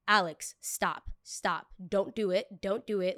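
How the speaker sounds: pleading friend. Retold or imitated.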